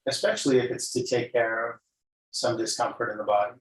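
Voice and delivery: calm guided-meditation voice with long pauses; unhurried yoga teacher leading a body scan. Real, not acted. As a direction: guide them gently into noticing breath and body.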